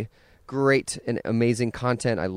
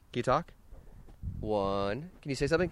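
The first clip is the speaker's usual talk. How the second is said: soft coaxing; 9 dB quieter than usual. Real, not acted. Dad coaxing toddler to speak.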